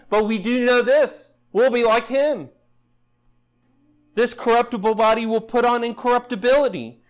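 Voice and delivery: full-force preaching. Acted. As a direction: preach it with rising fervour.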